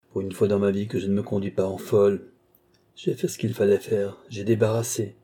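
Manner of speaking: cold, sure of herself, threatening; Marie, defiant and lucid. Acted. Woman to the young man, defiant then threatening.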